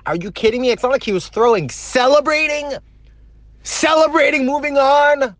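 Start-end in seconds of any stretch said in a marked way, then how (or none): 1.7-5.4 high-pitched, drawn-out disbelief; incredulous. Real, not acted. Fan learning the closer got hurt celebrating, incredulous. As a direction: throw it out in real disbelief.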